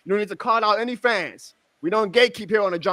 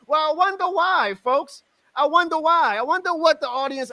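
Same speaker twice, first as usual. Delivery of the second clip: sarcastic wonder; 10 semitones higher than usual. Real, not acted. Sarcastic reply to critics.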